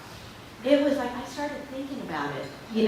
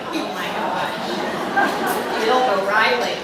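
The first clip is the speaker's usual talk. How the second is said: drawn-out, airy "oh my gosh", then a louder name; mock starstruck awe; awed excitement; 4 dB louder, slower than usual. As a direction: imitate being starstruck, stretching out the gasped words. Retells reaction to exciting booking.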